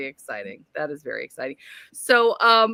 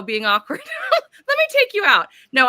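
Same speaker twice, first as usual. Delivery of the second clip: ordinary talk, nothing marked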